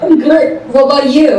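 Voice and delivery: put-on American accent. Real, not acted. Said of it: "What kind of accent is that?".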